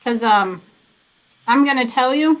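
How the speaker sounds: talking while chewing; words round a bite of granola bar; mouth full. Real, not acted. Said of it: "I need to quit eating and talking".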